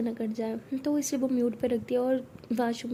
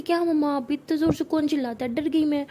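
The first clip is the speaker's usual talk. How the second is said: higher, louder startled protest; jumped and scolds mom back; girl startled by her mother's shout, louder complaint; 3 semitones higher, 4 dB louder than usual. Acted. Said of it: "कहती".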